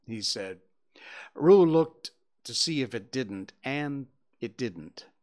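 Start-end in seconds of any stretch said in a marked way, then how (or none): none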